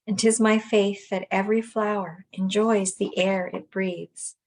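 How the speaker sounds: measured poetry recitation, pausing between lines; deliberate, evenly weighted lines of verse; poem reading. Acted. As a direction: read the verse aloud with gentle, even phrasing. Reads Wordsworth poem aloud.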